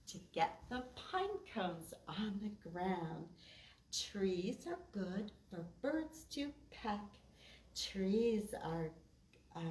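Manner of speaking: measured, sing-song poem reading; rhythmic read-aloud for kids; poem recitation. Acted. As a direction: recite a children's poem with a steady beat.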